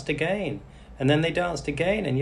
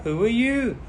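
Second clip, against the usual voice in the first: surprised Cinderella; 10 semitones higher than usual. A narrator's reading. Cinderella meets the fairy.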